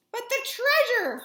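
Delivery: high, loud dismayed cry; captain worried for his gold; hollered. Acted.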